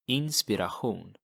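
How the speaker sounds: Inspiration the Swedish way, throaty ch-hoon ending; Swedish pronunciation. Shown as a demonstration. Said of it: "Inspiration is".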